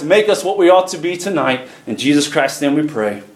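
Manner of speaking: steady, flowing pastor's prayer; public prayer. Real, not acted. Pastor asking the Father to speak tonight, flowing prayer. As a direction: pray aloud on behalf of the congregation in one running stream.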